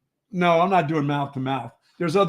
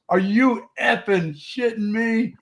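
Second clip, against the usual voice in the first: mild mock yell, higher and drawn out slowly; retold yell; 6 semitones higher, slower than usual. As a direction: imitate a stunned guy half-yelling in disbelief, slowly. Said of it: "he screams it out so loud".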